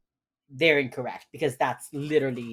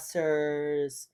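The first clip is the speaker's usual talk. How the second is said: trying to be strong; much slower than usual. Retold or imitated. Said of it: "she's trying to be strong".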